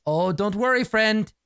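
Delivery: cheerful threat; lightly voiced creepy doctor; sinister doctor. Doctor to junkie.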